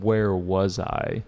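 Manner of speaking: "Where was I?" drawn out slowly as if lost; slow, lost question. Retold or imitated. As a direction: wonder aloud, slowly, where you were. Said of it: "The professor said".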